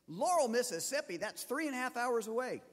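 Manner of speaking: incredulous surprise. Retold or imitated. Facilitator, amazed how far the pastor drives, incredulous. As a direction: retell an astonished stranger's exclaim.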